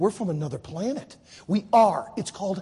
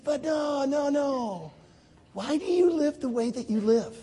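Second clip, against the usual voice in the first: higher voice, gently pleading for an answer; earnest questioning; 6 semitones higher, slower than usual. Retold or imitated. Israelis asking Jim about his life, earnest curiosity. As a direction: set the joke aside and really ask.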